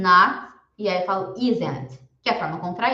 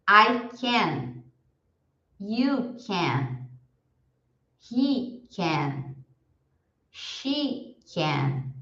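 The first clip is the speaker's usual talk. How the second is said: slow model drill; 3 dB quieter, much slower than usual. Shown as a demonstration. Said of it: "Eu falo, vocês repetem".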